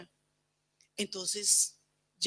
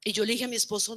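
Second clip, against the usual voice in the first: ordinary talk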